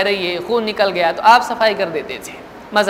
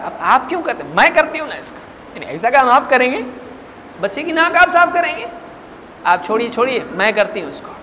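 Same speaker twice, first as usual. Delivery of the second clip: mild; Aisha's offer; 3 semitones higher than usual. Retold or imitated. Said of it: "قالت عائشہ".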